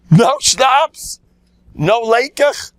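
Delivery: high, loud, shocked cry of no schnapps; loud mock outcry. Rabbi crying out to the shul about missing schnapps, loud mock alarm. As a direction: howl it like a fire alarm. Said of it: "B'kol Ram ... called a fire alarm".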